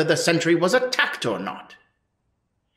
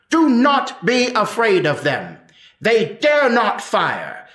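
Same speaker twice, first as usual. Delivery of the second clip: raised, urging the crowd on; rallying cry; 4 semitones higher than usual. Acted. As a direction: call out to stir up a mob.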